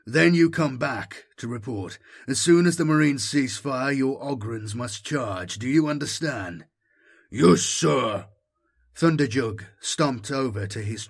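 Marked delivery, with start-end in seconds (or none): 0.1-6.6 brisk officer giving orders; a lightly voiced commander briefing his squad; commanding officer. 7.3-8.2 crisp, louder soldier's answer; a trooper acknowledging the order; soldier's reply. Acted.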